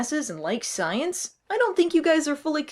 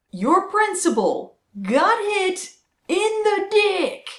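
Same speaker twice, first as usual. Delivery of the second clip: loud gleeful taunt; 8 semitones higher, 3 dB louder, slower than usual. Acted. Triumphant repeat of joke.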